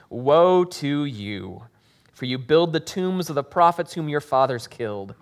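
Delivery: steady, earnest Bible reading to the congregation; scripture reading. Acted. Pastor reading the gospel aloud to the congregation, earnest. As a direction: read the passage aloud with weight.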